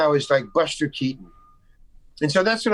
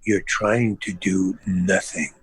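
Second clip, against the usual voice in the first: low, slow verdict; deadpan director; 8 semitones lower, slower than usual. Retold or imitated. Director tells his actor what he is doing, low and deadpan. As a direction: imitate a director delivering it word by word. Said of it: "And he says".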